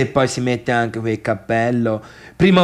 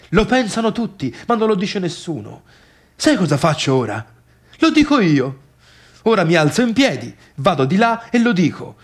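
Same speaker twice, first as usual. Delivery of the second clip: higher, faster, rising defiance; fired-up rant; 5 semitones higher, faster than usual. Acted. Man psyching himself to denounce party, fast defiant rant. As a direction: talk yourself into it, fast.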